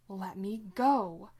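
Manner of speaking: demon voice. Acted. Demon pleads under the exorcism.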